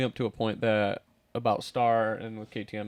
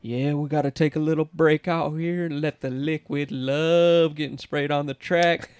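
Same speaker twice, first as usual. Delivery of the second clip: slow, higher, booming track announcer; 3 semitones higher, slower than usual. Retold or imitated. Friend imitating the race announcer over the PA, slow and higher. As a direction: drawl it out like the PA guy at intermission. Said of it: "and he'd be like".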